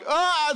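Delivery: high, loud mock cry of fright; short retold scream from a scared kid; frightened cry. Terrified son cries out.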